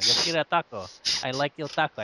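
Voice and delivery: put-on light playful Russian accent on Spanish words; mock Russian accent. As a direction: joke it out in a fake Russian accent. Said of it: "I talk like Russian accent".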